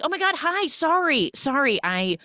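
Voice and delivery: high-pitched startled apology; flustered apology. Retold or imitated. She is caught in his room with the vape, flustered apology. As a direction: act caught out and scramble to apologize.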